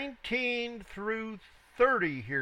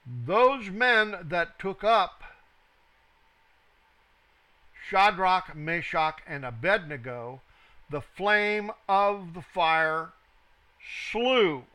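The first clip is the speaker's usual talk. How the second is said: scripture reading; 5 dB louder than usual. Acted. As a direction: read it out gravely, word by weighty word. Reads scripture aloud.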